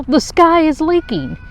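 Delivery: high, loud alarmed voice; panicked cry. Acted. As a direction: panic at the leaking sky. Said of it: "cried Dazzle".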